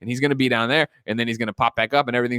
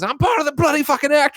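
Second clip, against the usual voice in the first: higher hammed-up British line; mock British; 14 semitones higher, 4 dB louder than usual. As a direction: ham up an indignant Brit. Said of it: "And then he goes".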